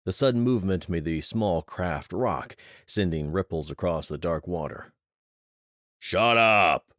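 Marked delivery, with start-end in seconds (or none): 6.0-6.9 loud, sharp bark to silence him; barked order. Acted. Jonas silencing the shouting soldier, loud angry bark. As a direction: cut the panic off hard. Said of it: "Jonas barked".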